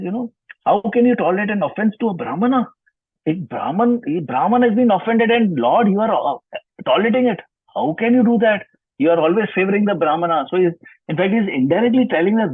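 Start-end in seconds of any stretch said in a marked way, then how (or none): 0.7-10.5 indignant challenge. Acted. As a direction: demand an answer, offended pride. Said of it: "And he says".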